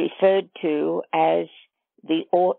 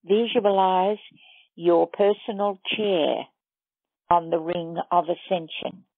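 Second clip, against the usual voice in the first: measured meditation guide with long pauses; guided meditation. Acted. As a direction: lead listeners step by step, leaving long silences between phrases.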